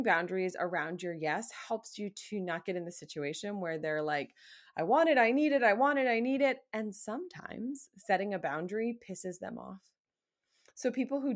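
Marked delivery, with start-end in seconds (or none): 4.8-6.6 louder and higher, a mock whiny chant; demanding brat. Mocking a coworker who demands it now, bratty whine. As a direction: whine it like a spoiled kid.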